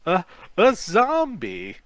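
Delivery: high, loud and slow, tripping over it; frightened stammer at the zombie. A narrator's reading. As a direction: blurt it out scared stiff. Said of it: "you stammer".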